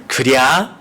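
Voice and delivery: rising, amused Chungcheong 그랴; Chungcheong dialect. Retold or imitated. Preacher listing dialect words with a chuckle. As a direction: drawl it like a country grandpa. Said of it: "충청도 사투리를 세 가지 단어로 요약".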